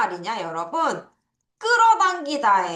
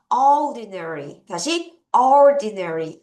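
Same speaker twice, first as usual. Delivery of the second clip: slow drill; 4 dB louder, much slower than usual. Shown as a demonstration. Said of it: "한꺼번에 해볼게요".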